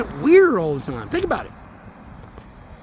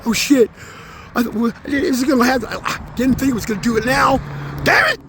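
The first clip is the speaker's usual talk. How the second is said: stadium crowd; 5 semitones higher than usual. Retold or imitated. Voicing the spirits cheering in a stadium, building to a shout. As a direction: play fans who can't believe it's happening. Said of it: "they got a big stadium going".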